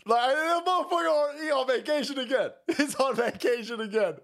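high, laughing exasperation; incredulous outburst. Real, not acted. Streamer ranting about a man on vacation, high incredulous outburst. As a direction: blurt it out high-pitched in disbelief.

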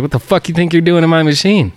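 high, loud, half-joking outrage; mock indignant yell. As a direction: catch him in your machine. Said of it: "I was like".

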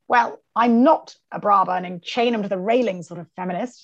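lightly imitated posh Scottish lady; a hint of upper-class Scottish accent, measured; posh Scottish accent, unhurried and firm. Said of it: "she speaks like this, sort of posh Scotch".

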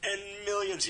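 gravelly, hammed-up The Rock voice; rock impression. Shown as a demonstration. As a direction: boom it out like The Rock. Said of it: "I just did a rock impression".

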